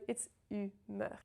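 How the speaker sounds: humeur with rounded u and open eu, no r sound; French humeur. Shown as a demonstration. French teacher modelling humeur. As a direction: say humeur as ymə, lips rounded. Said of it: "humeur means mood".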